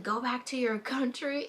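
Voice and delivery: imitating a rude woman, lightly; a hint of a hostile lady; mild mock insult. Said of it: "She was all like".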